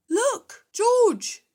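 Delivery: Daddy Pig calling out. A narrator's reading. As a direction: point at the shop window eagerly. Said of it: "says Daddy Pig".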